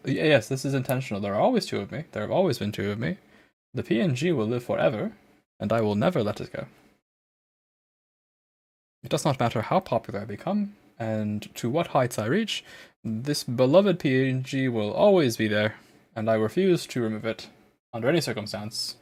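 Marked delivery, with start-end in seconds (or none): 1.2-3.2 put-on British accent. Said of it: "turn off this accent". 3.7-19.0 put-on British accent. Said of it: "I'm stuck in this accent".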